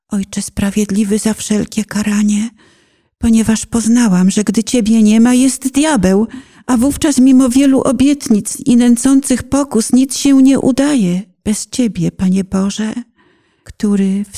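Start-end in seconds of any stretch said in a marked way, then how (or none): 3.2-11.2 rising fervour. Acted. Rising fervent confession.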